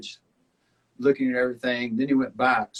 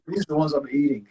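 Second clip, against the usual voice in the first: laughing; 3 semitones higher, 3 dB louder than usual. Real, not acted. Joking reply, laughing.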